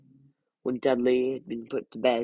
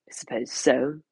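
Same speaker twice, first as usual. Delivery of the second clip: stiffly; 3 dB louder than usual. Acted. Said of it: "said stiffly".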